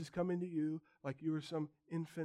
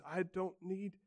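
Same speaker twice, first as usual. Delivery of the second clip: smug self-satisfied; 3 semitones higher, 4 dB louder than usual. Retold or imitated. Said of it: "the temptation is to take that attitude".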